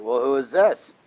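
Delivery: low teasing echo of the caller's question; mock echo. Dentist answers patient's phone and teases the caller, low and sly. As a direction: throw the question right back at him. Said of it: "And I'm like".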